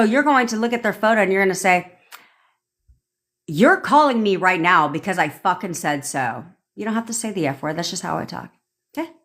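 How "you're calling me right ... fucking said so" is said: firm order, hard opening, falling close; impatient command. Shown as a demonstration. Coach demonstrating a command to a photo, impatient. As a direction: lay it down as non-negotiable. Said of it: "you're gonna do that in your tonality".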